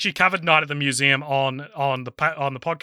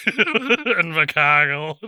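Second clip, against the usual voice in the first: Invercargill accent; much slower than usual. Shown as a demonstration. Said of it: "do Rhys Darby or ... Invercargill".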